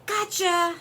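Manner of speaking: high, loud storybook shout; spring out and shout it; shouted scare. A narrator's reading. Rabbit springs out at beaver, shouting. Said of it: "he shouted".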